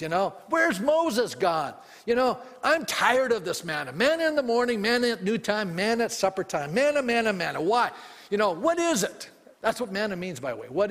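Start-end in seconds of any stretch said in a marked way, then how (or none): 0.5-9.3 hammed-up complaining Israelite grumbling at the same food; mock whining. Preacher mimics the Israelites to the congregation, whining. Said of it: "whining and complaining".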